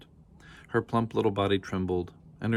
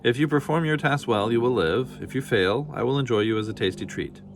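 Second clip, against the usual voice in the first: menacing dragon voice; 3 semitones higher, 4 dB louder than usual. Acted. Dragon sets threatening terms.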